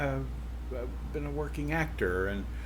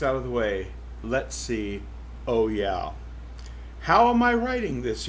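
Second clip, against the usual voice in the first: lively first-person read as the cow narrator; story narration. Acted. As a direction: tell it as the wry old cow herself. Reads novel aloud as cow.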